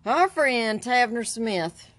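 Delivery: playful performed reading; mock reading voice. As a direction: start the article like a grand announcer, lightly. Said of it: "do a good reading".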